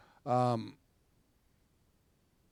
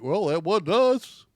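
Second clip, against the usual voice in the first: mocking whiny voice; 5 semitones higher, 7 dB louder than usual. Mocking the cops' excuse.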